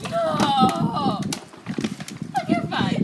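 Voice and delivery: high, loud shriek; shocked shriek. Real, not acted. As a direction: scream in alarm. Water thrown at her.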